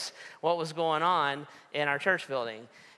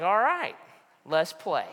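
defiant challenge; 3 semitones higher, 5 dB louder than usual. Retold or imitated. Pastor challenging the fire marshal, defiant and louder. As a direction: accept the fight with bravado. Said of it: "That's what I thought".

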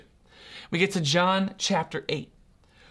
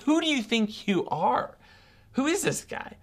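incredulous, higher-pitched questioning; indignant challenge; 5 semitones higher than usual. Acted. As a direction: act out sceptics demanding an answer. Pharisees challenge Jesus, acted quote.

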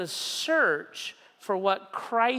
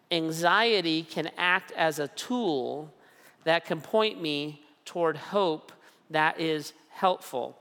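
slow restatement with pauses; deliberate repeat with pauses; slow, repeated for emphasis. Shown as a demonstration. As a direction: say it again, slowly, letting it sink in. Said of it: "One principle is this".

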